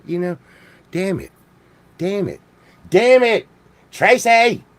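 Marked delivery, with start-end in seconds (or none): 0.9-2.4 muttered curse. Pretend. Comic cursing over Tracy, muttered. Repeated curse, building to a yell. 2.9-4.6 exasperated call. Pretend. Calling out to Tracy, exasperated.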